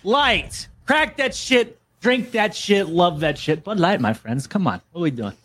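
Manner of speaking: hammed-up Boston sports-fan pitch; bad Boston accent. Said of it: "worst Boston accent I've ever heard".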